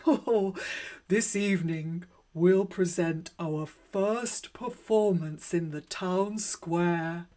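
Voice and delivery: a ringmaster crying out his big news; excited cry. Acted. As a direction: proclaim it with delight. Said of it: "he cried".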